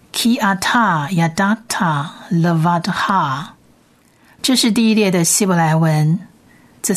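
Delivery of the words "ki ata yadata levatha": ki ata yadata levatha read slowly, syllable by syllable; slow Hebrew reading. Shown as a demonstration. Teacher reads the verse to students, slow and careful. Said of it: "我们先念一遍好了".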